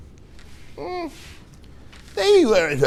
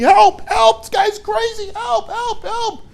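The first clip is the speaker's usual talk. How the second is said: high, comic cries of help; a kid hamming up his panic as he runs; mock scream for help; slower than usual. Kid chased by the driver, crying help in a high mock panic. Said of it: "the kid's screaming".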